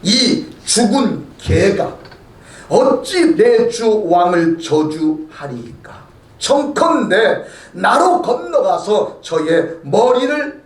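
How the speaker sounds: slow, a touch of restrained anger; a loyal soldier holding back rage, slowly; angry general. Acted. Abishai begs King David to let him strike, in slow, mild anger. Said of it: "아비새가 화가 난 거예요".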